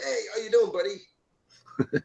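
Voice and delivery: high-pitched, breezy American hello; casual American greeting. Retold or imitated. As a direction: imitate an over-familiar American greeting someone. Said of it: "in America, it was like".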